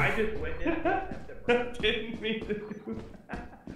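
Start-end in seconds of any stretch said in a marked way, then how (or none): 0.9-3.6 higher, softer laughing apology. Real, not acted. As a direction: giggle it out slowly. Laughing repeat.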